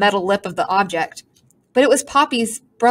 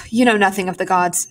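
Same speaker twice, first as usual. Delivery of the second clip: sniffy. Acted. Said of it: "sniffed the pigeon".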